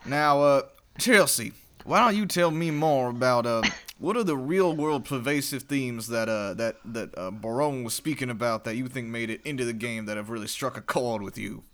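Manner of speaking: put-on Southern accent, mechanical robot voice. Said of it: "I wanna hear more Southern Robot".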